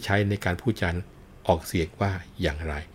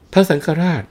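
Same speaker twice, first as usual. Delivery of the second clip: calling out; 11 semitones higher, 10 dB louder than usual. Acted. Calling the patriarch in the story.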